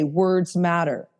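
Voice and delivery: each word weighed out slowly; slow, pointed emphasis on a motto; slow, deliberate catchphrase. Shown as a demonstration. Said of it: "you've probably heard me say".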